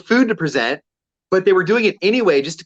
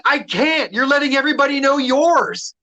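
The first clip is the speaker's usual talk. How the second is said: retold sassy comeback; 9 semitones higher than usual. Retold comeback to rude customer.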